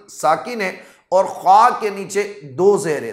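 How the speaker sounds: usual speaking voice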